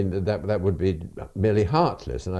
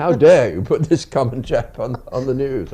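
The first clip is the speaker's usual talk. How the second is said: higher, louder mock indignation; mock outraged protest; 6 semitones higher, 6 dB louder than usual. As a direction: play the scandalised listener complaining. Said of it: "then immediately there were protests".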